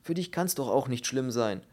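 mildly angry grumbling rebuke; scolding. Acted. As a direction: scold him indignantly. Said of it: "schimpfte der Mann in der Ecke".

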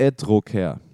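"Edroker" read as a reversed word; backwards speech. Shown as a demonstration. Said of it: "Mit dem Spiel Wörter rückwärts". (rückwärts gesprochen: "Edroker")

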